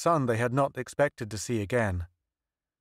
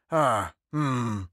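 profound musing. A narrator's reading. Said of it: "he said profoundly".

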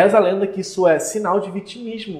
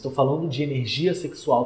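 ordinary talk

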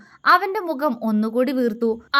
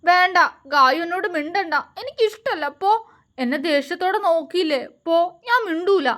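put-on higher, childlike tearful pouting; a hurt little boy refusing to talk; husband with a child's mind sulks at his wife; teary sulk; 5 semitones higher than usual. A narrator's reading. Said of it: "അവൻ കണ്ണ് നിറച്ചുകൊണ്ട് പറഞ്ഞു".

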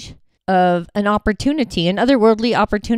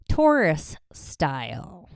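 slow, breathy whisper on the title; whispered tagline; 3 semitones lower, 5 dB quieter, slower than usual. Acted. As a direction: whisper it like a secret subtitle. Whispered tagline after show title.

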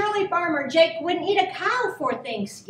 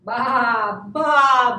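drawn-out baas, growing louder; bleating sheep; 3 semitones lower, 6 dB louder than usual. A narrator's reading. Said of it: "bleated Sheep".

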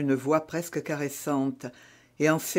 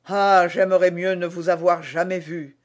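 exclaiming; 2 semitones higher, 6 dB louder than usual. Acted. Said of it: "s'écria d'Artagnan".

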